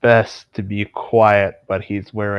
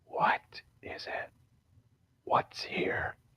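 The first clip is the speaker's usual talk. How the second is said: barely audible hushed whisper, close to the ear. A storyteller voices a character leaning in close to your ear, whispering. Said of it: "He leans in close to your ear and whispers".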